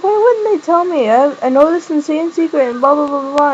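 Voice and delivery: high-pitched, agitated retelling; imitating an exasperated complaint; mock protest.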